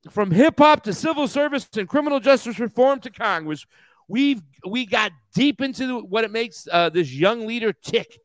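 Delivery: reading an ad in a lightly mocking tone; mild mock ad read; mock podcast promo. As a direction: play the podcast plug like a mocking announcer. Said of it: "Subscribe today on iHeartRadio".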